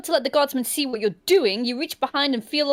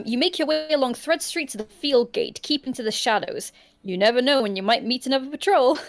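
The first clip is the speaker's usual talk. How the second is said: story narration. A narrator's reading. Reads gamebook scene aloud.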